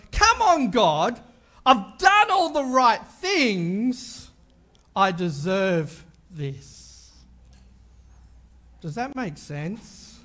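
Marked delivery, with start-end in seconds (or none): 0.1-7.1 slow, whining protest; whiny complaining. Retold or imitated. Pastor mocking his own complaint to God, slow whine. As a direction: drag it out like a sulking child.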